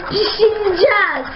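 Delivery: giggling through the word; laughing. Real, not acted. Child laughs at own joke.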